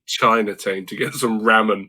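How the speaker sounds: "Chinatown" ending in "tayn", "ramen" with a short flat a as in "ram"; mimicked pronunciation. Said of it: "You can't say Chinatown".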